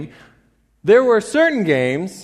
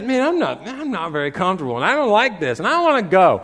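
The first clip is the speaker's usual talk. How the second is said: mildly whiny mock complaint; imitated grumbling. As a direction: grumble like an uncomfortable fan. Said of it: "they began to grumble and complain".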